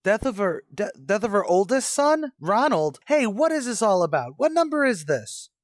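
high, loud, stammering panic rising to a cry; the floor drops out from under him; panicked disbelief. Acted. Man told of his own death, high loud panic.

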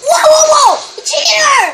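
mock alarm. Player exposes a cheater to friends, mock alarm.

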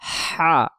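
হা pushed from mid-throat with a hiss; pressed throat ha. Shown as a demonstration. Teacher showing the pressed throat হা, hissing. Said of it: "চাপ দেব হলকের মধ্য থেকে শো শো করে".

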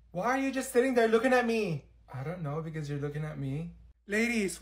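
ordinary delivery

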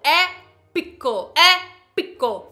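slow, loud, drawn-out "Épico" with a falling end; dramatic épico. Shown as a demonstration. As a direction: boom out "Épico" slowly like a movie trailer. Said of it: "fale as palavras com entonação".

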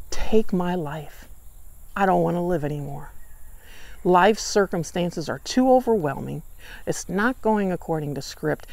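a weary man who wants to give up, quiet throughout; despairing plea. Acted. Jonah despairing, asking to die.

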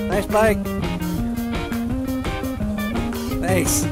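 high-pitched call across traffic; brief, high remark to a stranger; calling to another rider. Real, not acted.

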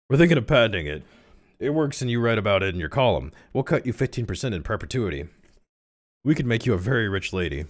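lightly voiced husband making a pitch; husband character. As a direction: drop the falsetto, keep it lively. Rereads it as the husband.

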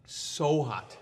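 breathy whisper through burning mouth. Real, not acted. Pepper burn, voice gone to whisper.

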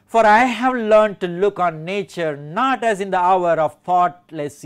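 connected poem recitation at a natural pace; flowing verse reading. Shown as a demonstration. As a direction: read the lines through in longer phrases. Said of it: "shown this stress through underlining".

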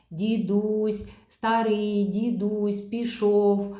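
slow, each word set apart like a wagon; phrase chunked for a child. Shown as a demonstration. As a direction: pause after every word of дідусь старий пішов. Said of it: "коли вже йдемо на вимову фрази".

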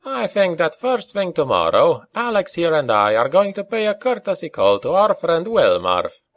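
high, breezy Scots announcement; cheerful. A narrator's reading. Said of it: "McCall said cheerfully".

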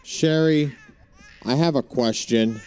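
high, loud, crying with panic; panicked crying plea. Real, not acted. Streamer terrified in the horror game, panicked crying. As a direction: beg for answers in rising fear.

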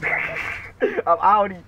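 slow, high, stretched out; mock drawl. Teasing the opponent goodbye, slow high mockery.

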